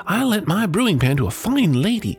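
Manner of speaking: bubbling over with good news; excited chatter. Acted. Wife telling her husband about the wishes, excited. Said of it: "cried the woman".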